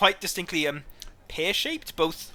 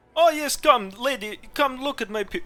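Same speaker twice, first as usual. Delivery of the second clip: put-on Slavic accent, higher pitch; 8 semitones higher, 4 dB louder than usual. Voicing a jewelry seller in a tabletop game: put-on Slavic accent. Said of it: "the general Slavic accent".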